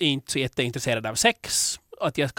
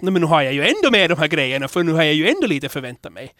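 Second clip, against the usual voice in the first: louder, flustered quoted thought; upprörd inre tanke; 3 semitones higher, 6 dB louder than usual. Retold or imitated. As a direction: blurt it out in mild alarm. Återger sin generade tanke. (upprörd, generad utrop)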